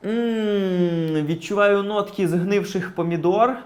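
slow, savouring sommelier with long pauses; drawn-out tasting notes, pondering; stink connoisseur. Acted. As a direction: sniff and describe it like a fine-wine taster. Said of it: "славнозвісні дегустатори воні".

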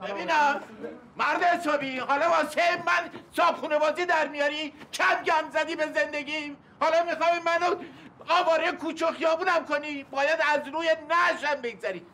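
a tenant defying his landlord, heated; angry protest. Acted. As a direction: push back hard, you won't be thrown out.

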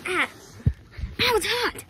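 high yelp of pain; burnt fingertips. Real, not acted. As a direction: yelp as the seat burns. Touches hot boat surface.

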